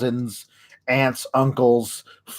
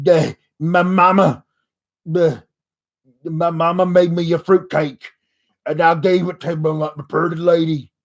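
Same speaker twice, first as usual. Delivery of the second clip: lightly put-on Southern hick voice, stretched vowels; a hint of a slow country yokel; mock Southern drawl; 2 semitones higher than usual. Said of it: "doing Billy Bob Thornton and Sling Blade".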